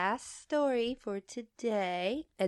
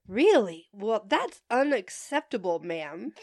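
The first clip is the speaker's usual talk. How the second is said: stern, appalled service voice. Retold or imitated. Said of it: "Sounding stern and appalled while maintaining my higher-pitched voice".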